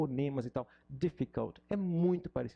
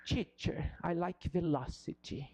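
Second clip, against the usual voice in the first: imitating a student; 3 semitones higher, slower than usual.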